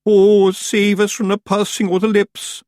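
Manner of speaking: high, loud, slow mock wail; mock wailing dread. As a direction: moan it like doom is coming. Moan went up from all.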